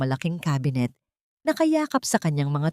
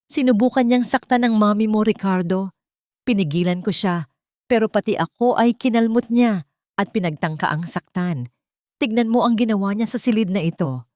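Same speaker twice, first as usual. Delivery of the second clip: louder, higher staged tearful accusation; mock sobbing plea to her husband; fake sobbing; 3 semitones higher, 3 dB louder than usual. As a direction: put on a tearful show of being the victim. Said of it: "Ang bawat hikbi ni Amanda".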